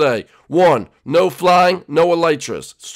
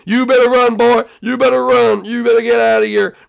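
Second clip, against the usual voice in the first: high, loud angry shouting; threatening sergeant; 8 semitones higher, 5 dB louder than usual. Acted. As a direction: shout him out of the squadron. Sergeant chases out expelled recruit.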